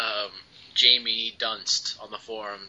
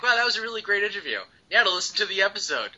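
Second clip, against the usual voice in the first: imagined pleased listener; 7 semitones higher, much faster than usual. Acted. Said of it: "he's gonna be like".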